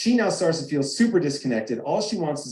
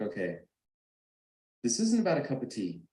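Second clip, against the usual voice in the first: much softer, settling the argument down; quiet calming; 2 semitones lower, 7 dB quieter than usual. Retold or imitated. Pulls over, calms the fight.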